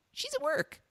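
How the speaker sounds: very high imitation of a small boy; little kid's voice. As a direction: pitch it way up like a six-year-old. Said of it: "it was this little kid's voice".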